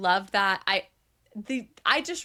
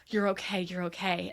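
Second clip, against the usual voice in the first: gently reassuring, fading softer; 3 semitones lower, 3 dB quieter than usual. Retold or imitated. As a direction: ease someone's fear gently. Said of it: "he's just like".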